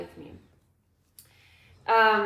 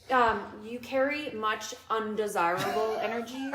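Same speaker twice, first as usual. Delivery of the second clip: lightly voiced solemn psychic; a hint of a grave spiritual medium; mock medium. Medium telling her son his energy is bad, lightly mock solemn. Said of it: "that's basically saying".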